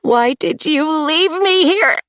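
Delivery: flat falling question, last word bitten off; anguished cry. A narrator's reading. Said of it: "There was no lift at the end".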